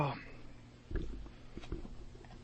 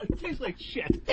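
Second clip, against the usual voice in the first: disgusted mutter; 7 semitones higher, 8 dB quieter, slower than usual. Real, not acted. Forced to eat dog food.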